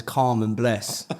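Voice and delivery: slow, drawn-out fake street slang; lightly voiced posh kid faking East End; mock posh faux East End. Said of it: "when a private school kid says".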